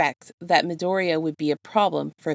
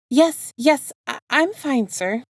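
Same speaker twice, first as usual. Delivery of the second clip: flustered reassurance; 8 semitones higher, 4 dB louder, slower than usual. A narrator's reading. Flustered boy insists he's fine.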